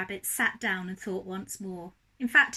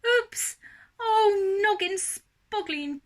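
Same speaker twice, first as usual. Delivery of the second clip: high, loud frustrated shout; 8 semitones higher, 4 dB louder than usual. A narrator's reading. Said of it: "he shouted".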